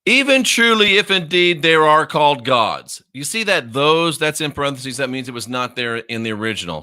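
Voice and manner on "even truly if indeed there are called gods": emphatic scripture reading. Real, not acted. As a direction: read the verse out forcefully. Emphatic reading aloud of verse.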